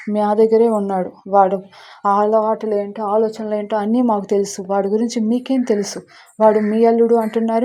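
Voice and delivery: loud, heated mock shouting; retold shouting. Aunt shouting back at the other family, loudly indignant. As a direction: raise the voice in an indignant row. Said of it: "Dhanyalakshmi కూడా అరుస్తుందన్నమాట".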